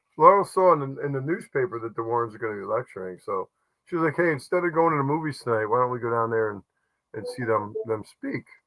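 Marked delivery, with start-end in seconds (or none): none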